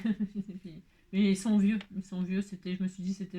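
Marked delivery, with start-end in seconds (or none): 0.0-0.8 laughing. Real, not acted. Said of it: "Non, je les ai payés".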